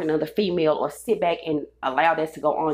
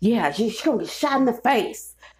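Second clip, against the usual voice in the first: acted, disgruntled, angry old man voice, pitched up; 5 semitones higher than usual. Retelling what a disgruntled older guy told him, imitating an angry old person. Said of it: "sound like an angry ass old person".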